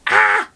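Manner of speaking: sharp high loud cry of pain; pained scream. Retold or imitated. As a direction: yelp as if you just hit your toe. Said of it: "we would usually just scream".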